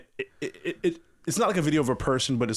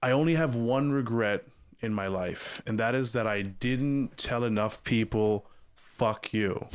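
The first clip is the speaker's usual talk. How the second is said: softer, measured voiceover imitation; calm confident voice; 2 semitones lower, 3 dB quieter, slower than usual. Retelling a sailing video's voiceover to a co-host, calm and confident. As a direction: lightly mimic a calm, assured narrator. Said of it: "just calm, confident voice".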